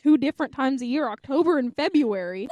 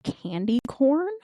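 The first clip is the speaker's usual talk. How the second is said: coworker's dead reply; slower than usual. Retold or imitated. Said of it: "had the audacity to say to me".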